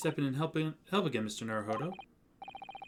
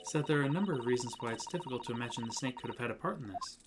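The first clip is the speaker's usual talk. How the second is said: soft, hesitant pleading; a shy assistant gently correcting; lightly voiced, softer young woman; timid girl; 5 dB quieter than usual. Reads a soft girl's lines.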